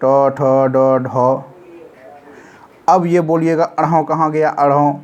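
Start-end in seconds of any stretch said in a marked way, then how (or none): 0.0-1.4 ट, ठ, ड, ढ each said slowly with pauses; teacher lists the ट-group letters slowly one by one; spelled-out letters. Shown as a demonstration. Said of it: "ट से टवर्ग".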